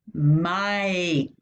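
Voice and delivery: "Mike" with a drawn-out "eye" vowel; long I sound. Shown as a demonstration. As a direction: stretch the "eye" inside "Mike". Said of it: "That's the long I sound".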